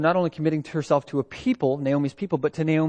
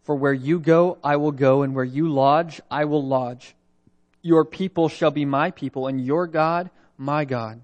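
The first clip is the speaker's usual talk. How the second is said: solemn Bible reading from the pulpit; scripture reading. Acted. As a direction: proclaim the text deliberately, word by word. Reads scripture aloud to congregation.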